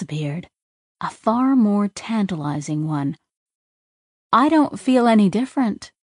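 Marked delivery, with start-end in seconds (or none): 4.3-5.9 gleeful. Acted. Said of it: "Her pathways buzzed gleefully".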